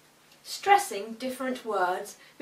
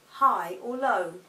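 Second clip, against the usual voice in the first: "high" up and "low" down, slowly; slow high-to-low demo; high then low; 4 dB louder, slower than usual. Shown as a demonstration. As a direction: bend the pitch to match. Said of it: "alter the pitch of our voice".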